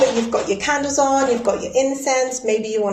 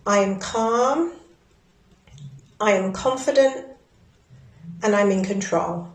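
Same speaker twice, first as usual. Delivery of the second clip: affirmation. Shown as a demonstration. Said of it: "tapping and repeating after me".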